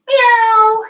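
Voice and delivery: high squeaky cat meow. Pretend. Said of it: "We can have a meow if you want".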